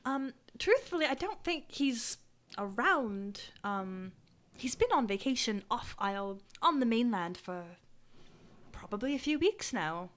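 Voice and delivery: lightly voiced, measured townsperson; townsperson character. Townsperson describes the mayor to adventurer, mildly hesitant. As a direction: choose the praise carefully, with pauses.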